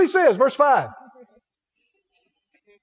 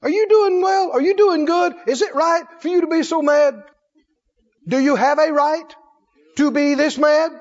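lightly voiced questioning God; 3 semitones higher than usual. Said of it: "The Lord asked him a question".

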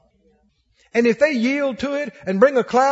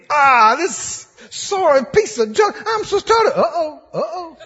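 mock disgusted grumble; 4 semitones higher than usual. Grumbler complaining about car.

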